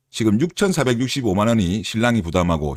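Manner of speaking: ordinary talk, nothing marked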